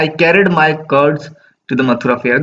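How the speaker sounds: slow, measured recitation of the verse; poem reading. Acted. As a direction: read the line slowly, savouring it. Reading poem lines slowly.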